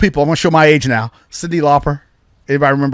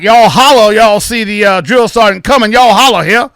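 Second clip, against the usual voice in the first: put-on thick Southern accent; 6 semitones higher, 4 dB louder than usual. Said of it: "real thick old Southern accent".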